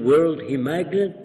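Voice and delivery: put-on Arabic accent, asking in wonder; Arabic-accented English. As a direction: imitate an Arab immigrant's broken English. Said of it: "in a dialect".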